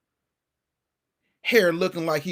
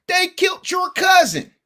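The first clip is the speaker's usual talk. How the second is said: high, loud shouted movie line; O-Dog movie line; 12 semitones higher, 5 dB louder than usual. Retold or imitated. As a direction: yell it like O-Dog gone wild. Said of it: "We need that O-Dog energy".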